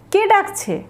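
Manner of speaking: কে ডাকছে? asked high, with কে stressed; high questioning take. Shown as a demonstration. Teacher models কে ডাকছে? as a high, surprised question. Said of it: "পরেরটা দেখব".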